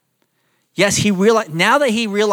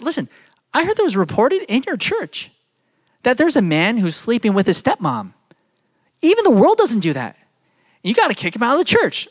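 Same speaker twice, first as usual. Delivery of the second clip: indignant Paul, paraphrased; 5 semitones higher than usual. Retold or imitated. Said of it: "I'm paraphrasing".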